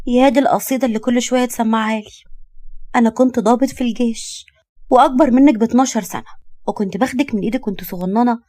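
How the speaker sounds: lightly voiced pert young woman; a hint of teasing impatience; cheeky young woman. Young woman teases the man.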